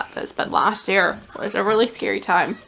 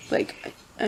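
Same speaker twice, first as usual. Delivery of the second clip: holding back tears; 9 dB quieter than usual. Real, not acted. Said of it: "could feel my tears coming".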